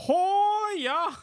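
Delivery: high, loud, drawn-out Canadian holler; mock Canadian accent. Mimicking friends who mock the accent, hammed-up Canadian yell. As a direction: caricature a Canadian with a long sliding whoop.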